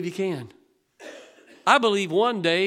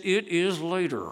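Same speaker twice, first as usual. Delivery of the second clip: lightly voiced little girl, matter-of-fact; girl's retort. Little Brooke answering the pastor, lightly voiced retort. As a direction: answer back like a clever child. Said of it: "that's about the way she said it".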